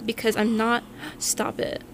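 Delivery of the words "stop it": whispered. Real, not acted. Hushed protest.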